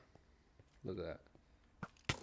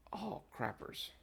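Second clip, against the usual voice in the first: high, slow oh crappers; surprised; 11 semitones higher, slower than usual. Real, not acted. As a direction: squeak it out in surprise. Sudden realisation, forgot lights.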